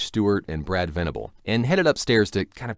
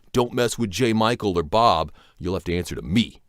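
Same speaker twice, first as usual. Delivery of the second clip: bodyguard enforcer; 4 dB louder than usual. Retold or imitated. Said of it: "looked like an enforcer".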